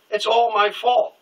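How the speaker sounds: high, slow mock sobbing; retold bawling. Teen friend blubbering after the coming out, mock sobbing. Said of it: "he just starts bawling".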